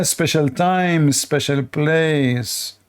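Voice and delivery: drawn out very slowly, sneering; mocking quote. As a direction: stretch each word to ridicule it. Mocking opponent's quoted words.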